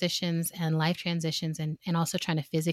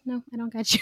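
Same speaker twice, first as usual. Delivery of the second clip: laughing mock refusal; 5 semitones higher, faster than usual. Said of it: "And they're like".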